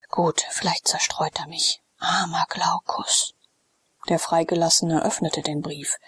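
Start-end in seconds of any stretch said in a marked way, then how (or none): 0.1-3.3 drowsy lord, barely awake, breathing the words; sleepy weary whisper. Acted. Sallust, just woken, murmuring to his freedman, drowsy and weary. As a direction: murmur it half asleep, unwilling to stir.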